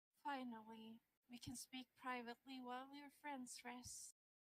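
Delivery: soft, soothing, gentle female voice. A voice the hero has never heard speaks inside their head: soft, soothing female voice. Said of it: "a soft, soothing female voice".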